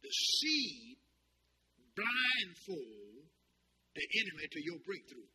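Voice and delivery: drawn-out preacher's key line; deliberate dictation. Real, not acted. Preacher giving a line to write down, deliberate.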